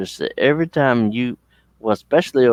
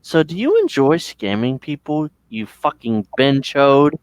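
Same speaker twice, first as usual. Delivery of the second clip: higher mock-innocent taunt; spring the reveal, pitched up and goading; taunting scam baiter; 4 semitones higher than usual. Scam baiter confronts the scammer, mock taunting voice. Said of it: "then they'll be like".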